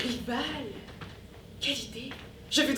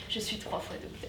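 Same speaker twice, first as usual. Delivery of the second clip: whispered, far softer; whispered aside; 7 semitones lower, 15 dB quieter than usual. Acted. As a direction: breathe the boast under the breath. Pompous doctor trailing off.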